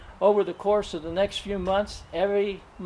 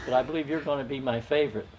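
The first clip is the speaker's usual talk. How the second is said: laughing; 2 semitones lower, faster than usual. Real, not acted. Teasing wife, laughing while speaking.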